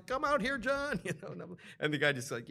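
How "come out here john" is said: very high, loud call; retold yelling. Vendor calling John out over an unpaid bill, retold yelling. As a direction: holler for backup. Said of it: "And he's yelling".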